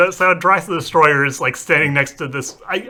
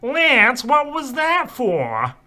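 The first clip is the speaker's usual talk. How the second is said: hurt complaint; 8 semitones higher, much slower than usual. Acted. Character hit by a book.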